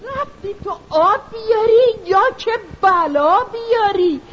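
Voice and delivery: scolding shriek. Acted. Mother shrieks at her daughter to stop talking. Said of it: "مادر با جیغ و داد گفت".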